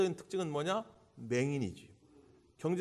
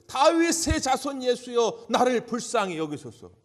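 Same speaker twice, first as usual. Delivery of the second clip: high, loud, slow plea to be heard; loud, drawn-out cry for mercy; desperate crying out; 7 semitones higher, 9 dB louder, slower than usual. Retold or imitated. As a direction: call out across a crowd to someone you cannot see. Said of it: "소리를 고래고래 지르는 거예요".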